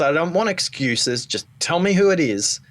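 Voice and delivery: a touch of an outburst, rising; wife confronting husband with a mild mock outburst; mock angry wife. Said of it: "she explodes and she says".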